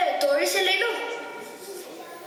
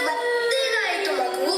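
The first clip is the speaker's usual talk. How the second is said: coaxing; 5 semitones higher, slower than usual. Pretend. King coaxes the pretend child.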